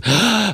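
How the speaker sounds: sharp gasp for air; breathless gasp. Shown as a demonstration. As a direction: gasp like you ran out of air. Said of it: "out of breath".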